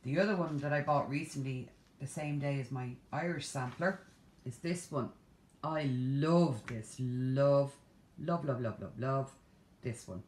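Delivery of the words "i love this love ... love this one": louder, slow swooning love; gushing love. Real, not acted. Vlogger gushing over a pattern she bought, louder and drawn out. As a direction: gush over it, stretching each love. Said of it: "gushing over a pattern".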